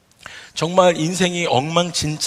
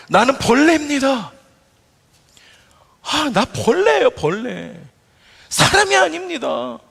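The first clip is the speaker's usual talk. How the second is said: anguished lament; 8 semitones higher than usual. Acted. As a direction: plead like a broken man. David's lament voiced by preacher. (버림받은 다윗의 높고 절절한 탄식)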